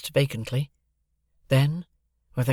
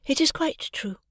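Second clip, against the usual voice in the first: much higher, cool and dismissive; contemptuous indifference. A narrator's reading. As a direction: toss it off with utter contempt. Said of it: "with the indifference of utter contempt".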